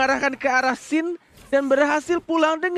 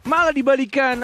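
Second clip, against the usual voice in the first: slow, drawn-out amazed outcry; excited exclaim; 4 semitones higher, slower than usual. Real, not acted. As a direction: stretch the amazement out. Co-caster reacting to comeback. (seruan kagum yang panjang)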